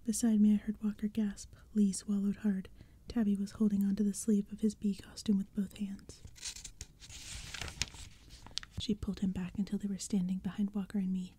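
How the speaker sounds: hushed spooky whisper throughout; whispered storytelling. A narrator's reading. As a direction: breathe the story like a secret. Whispered narration.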